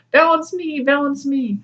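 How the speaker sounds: high eager mock plea; past lives clamoring. Past lives begging to go next, high and eager. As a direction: squeak it out like a pushy child. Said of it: "your past lives are like".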